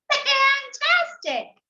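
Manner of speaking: high, slow, drawn-out "Fantastic"; mock admiration. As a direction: flatter the dragon sweetly. Princess praising the dragon.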